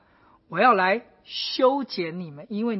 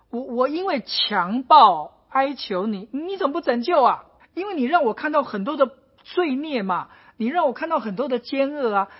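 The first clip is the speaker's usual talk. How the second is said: Habakkuk's plea; 3 semitones higher than usual. Retold or imitated. Preacher voicing Habakkuk complaining to God, pleading. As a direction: cry out to God like a frustrated prophet. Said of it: "他第一个向神的问题就是".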